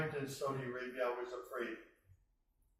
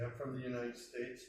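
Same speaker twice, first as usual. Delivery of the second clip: quiet, hesitant retelling of a nervous answer; mildly nervous, softer, as if unsure of the reaction; 5 dB quieter than usual. Retold or imitated. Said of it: "I would nervously say".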